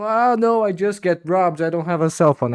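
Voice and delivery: high mock excuse. Voicing himself to robber.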